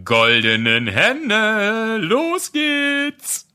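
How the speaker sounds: drawn-out, high showman call; mock announcer. Host kicking off the episode, in a hammed-up showman call. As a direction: stretch it out like a fairground host.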